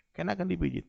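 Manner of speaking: "Keenakan" repeated quietly, falling; soft echo. Shown as a demonstration. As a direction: drop the voice on the repeat "Keenakan dipijit".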